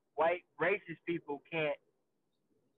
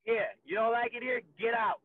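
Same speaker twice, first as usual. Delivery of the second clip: mock shout; 4 semitones higher than usual. Mocking their slogan.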